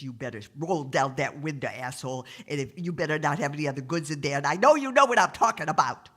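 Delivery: threaten, rushing and rising at the end; cranky cop. Acted. Cranky cop orders the window down, irritation building. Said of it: "the cop is getting a little crankier".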